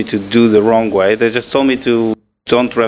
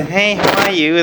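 higher, friendly phone hello; own phone greeting; 6 semitones higher than usual. Shown as a demonstration. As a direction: greet the caller as you answer the phone. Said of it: "when I pick up the phone, I say".

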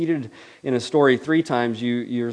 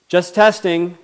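sheepish backpedal; 7 semitones higher, 11 dB louder, slower than usual. Acted. Alarmed skeptic backpedals.

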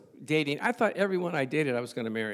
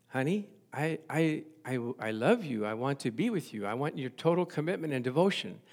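soft pleading suitor; 2 semitones lower, 5 dB quieter than usual. Retold or imitated. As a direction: murmur it like a hopeful boyfriend. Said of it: "the man says".

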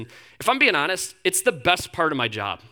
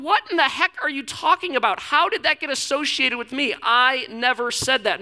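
raised, exasperated protest; mock incredulous God; 8 semitones higher than usual. God denies what people pin on him, mock exasperated. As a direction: play God baffled at the blame.

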